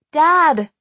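loud, high call through glass. A narrator's reading. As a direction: call out urgently to someone behind a window. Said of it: "I called through the glass".

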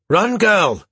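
high, loud hoarse shout. A narrator's reading. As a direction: bark it out mid-fight, hoarse. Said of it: "he shouted, his voice hoarse".

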